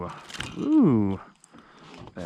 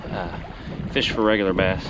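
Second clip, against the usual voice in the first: out of breath; 3 dB louder than usual. Real, not acted. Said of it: "I'm out of breath".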